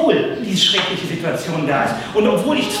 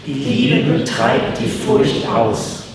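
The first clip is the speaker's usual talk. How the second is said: with conviction; 7 semitones lower, much slower than usual. Shown as a demonstration. Preacher leading the congregation in a creed, lower and full of conviction. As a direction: say it like you truly believe it, each word weighed. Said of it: "Und jetzt nochmal mit Überzeugung".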